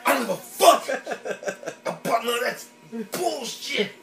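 grab the mic and demand a ring; mock LeBron rant. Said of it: "wanted to grab the motherfucking mic".

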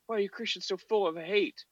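high whiny mock protester; mocking quote. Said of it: "whenever they're".

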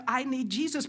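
quoting the husband with lifted surprise; stunned retelling. Retold or imitated. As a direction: let the shock ring in it. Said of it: "His friends were shocked that he said".

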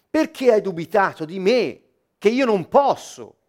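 loud, insistent sermon delivery; preacher pressing a point forcefully; emphatic preaching. Acted. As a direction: drive the argument home to the congregation.

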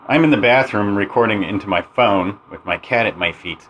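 tinny phone recording in a bathroom; lo-fi cell phone voiceover; over the phone. Shown as a demonstration. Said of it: "here's an example of some really bad voiceover".

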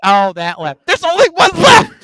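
high, loud, mock-indignant whine; mock sister voice. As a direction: play the clueless sister. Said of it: "And she goes".

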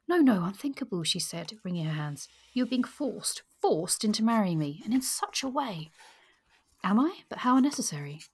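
a hint of a flustered heroine; distressed young woman. Reading the heroine's distressed lines.

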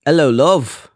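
mock British greeting, H dropped; hammed-up British accent; put-on British accent. Shown as a demonstration. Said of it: "That's my accent".

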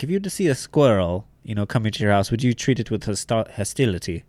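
badly imitated German accent; lightly put-on, unconvincing German accent. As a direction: attempt a German accent that drifts towards British. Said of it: "doing a really bad German accent".

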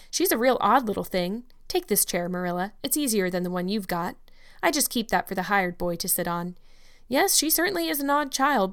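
hearty, outspoken country woman; bustling older neighbor. Acted. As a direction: talk like a blunt kindly gossip. Mrs Lynde speaks again.

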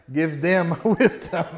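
slow, with a laugh breaking in; laughing through the words. Real, not acted. Pastor laughing as the church prays for others. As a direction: chuckle halfway through the line. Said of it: "Can you say that for somebody else?".

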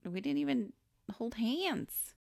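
acted-out incredulous denial; mock indignant denial. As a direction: deny it in rising disbelief. Acting out girl's indignant denial.

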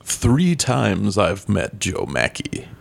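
slow, mock-spooky storyteller voice; lightly spooky, drawn out slowly. Asked for a spooky voice, tells it slowly, mock-spooky. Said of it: "Say it with a spooky voice".

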